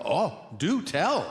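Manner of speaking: slow, mock-interested; sarcastic. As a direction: drag it out with fake curiosity. Sarcastic reply to the senator.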